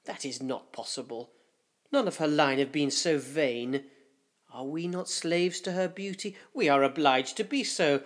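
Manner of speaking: lightly voiced anxious councillors debating; worried councillors. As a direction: murmur your doubts about the queen in corridors. Councillors debating the failing queen.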